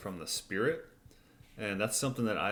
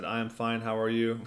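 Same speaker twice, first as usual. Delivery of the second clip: robot voice; 3 semitones higher, 4 dB louder than usual. Retold or imitated. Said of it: "in an automaton voice".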